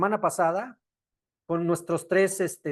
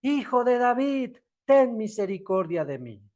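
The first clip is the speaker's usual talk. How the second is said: higher, pleading call of the blind man; a mild, higher imitation of a desperate plea; retold cry for mercy; 5 semitones higher than usual. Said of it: "pero él gritaba mucho más".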